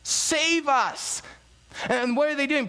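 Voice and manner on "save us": high-pitched imitation of a crowd's cry. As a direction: plead aloud like the crowd, without full shouting. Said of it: "they're crying out".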